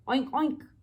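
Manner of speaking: short oinks; snorting oinks; pig oink. Acted. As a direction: oink like a hog. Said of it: "said the hog".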